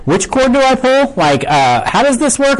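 high-pitched anxious questions; mock last-minute panic. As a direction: blurt it like a nervous first-time skydiver. Acting out a panicked skydiver's questions.

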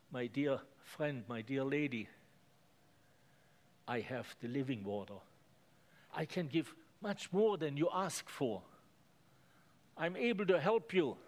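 Jesus answering the woman tenderly; gentle tender answer. Acted. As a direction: reassure a hurting woman. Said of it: "beautifully answered her".

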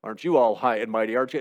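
lightly voiced sneering comeback; mock sneer. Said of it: "somebody might then turn to you and say".

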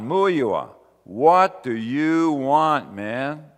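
slow and loud, aimed at one man; pointed personal question. Acted. Preacher confronts one listener by name, slow and pointed. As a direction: call him by name and press him.

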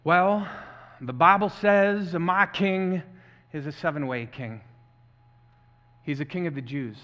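Southern preacher reciting a famous speech; deep Southern accent. Acted. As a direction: roll out measured declarations in a deep Southern accent, swelling on the lists. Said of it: "using a deep South Southern accent".

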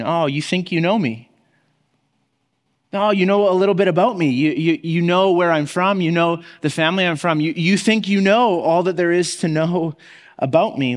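dry, knowing irony behind each line; a touch of wry sarcasm; ironic. Acted. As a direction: tease them with what they think they know. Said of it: "his words are dripping with the irony".

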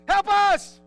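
high, loud cry for help; panicked shout. Retold or imitated. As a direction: yell it like the boat is sinking. Disciples call to Jesus.

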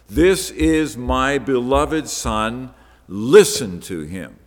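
slow weighty divine declaration; slow solemn voice of God. Retold or imitated. God speaking to the disciples, slow and solemn. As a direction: let each word land, slow. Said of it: "The voice of God is saying to them".

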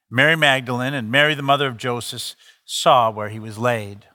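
solemn public reading; scripture reading. Acted. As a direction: read the passage steadily to the congregation. Reads scripture aloud.

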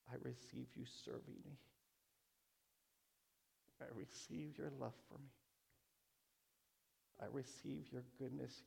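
soft, intimate receiving; hushed prayer. Real, not acted. Praying softly to God, receiving his love, hushed. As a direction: murmur it to God like a confession.

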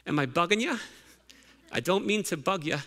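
lightly attempted Irish accent quoting a singer; a hint of put-on Irish. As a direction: try your best Irish accent, lightly. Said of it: "I try to say it in my best Irish accent".

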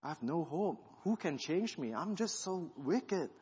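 in tears. Retold or imitated. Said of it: "I was in tears".

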